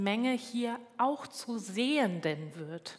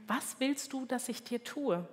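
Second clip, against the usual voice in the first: softer, slightly raised voice; gentle question; 3 semitones higher, 5 dB quieter than usual. Retold or imitated. Jesus stops and asks the blind beggar, soft retold question. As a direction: ask it softly, as a quoted question.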